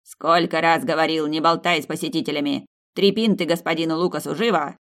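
loud, gruff scolding; angry innkeeper. Acted. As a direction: bark orders at the girl.

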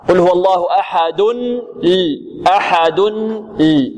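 slow measured recitation; Quranic recitation. Shown as a demonstration. Teacher reciting the verse for the class. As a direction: chant it for the class. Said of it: "ها".

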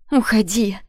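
shout. Acted. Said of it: "крикнула ему в лицо".

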